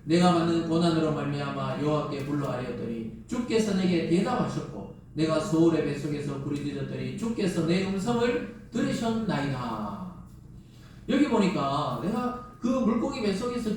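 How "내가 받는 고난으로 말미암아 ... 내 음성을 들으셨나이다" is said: steady unison reading of scripture. Acted. Pastor leading the church in reading the verse aloud. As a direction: read the verse together, even and measured.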